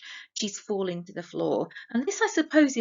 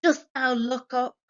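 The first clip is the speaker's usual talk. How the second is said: louder, higher accusing shout in a put-on voice; mock shout; 5 semitones higher, 5 dB louder than usual. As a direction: read it as a father shouting at his daughter. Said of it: "He shouts at his daughter on the floor".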